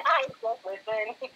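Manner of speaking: teasing echo through a laugh; amused echo. Retold or imitated. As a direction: repeat it back, laughing lightly. Playfully echoing co-host's modest reply.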